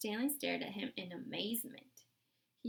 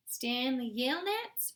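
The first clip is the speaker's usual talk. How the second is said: calling out his name across the lake; 5 semitones higher, 7 dB louder, slower than usual. A narrator's reading. Lawyer calling across the dry lake to Stanley, loud call. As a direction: raise the voice to reach him far off. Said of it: "she called".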